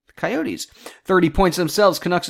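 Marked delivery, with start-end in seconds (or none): 0.1-0.7 quiet resigned acceptance. Real, not acted. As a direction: settle for the fact.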